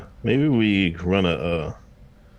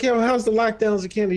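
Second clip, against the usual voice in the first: retold teasing question; 10 semitones higher than usual. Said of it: "I was like".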